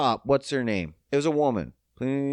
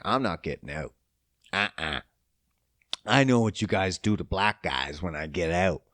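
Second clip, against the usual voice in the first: driver refusing; 12 semitones lower, 4 dB quieter than usual. Retold or imitated. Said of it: "he's like".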